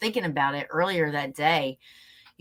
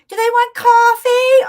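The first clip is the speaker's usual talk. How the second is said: much higher, louder, slow sing-song mock innocence; naive chirpy friend; 12 dB louder, slower than usual. Girl at the cabin offering state police coffee, high chirpy mock innocence. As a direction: play it as a wide-eyed cheerful offer.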